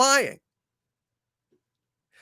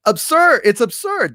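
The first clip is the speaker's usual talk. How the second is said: exasperated; 7 semitones higher than usual. Real, not acted. Outraged at the argument.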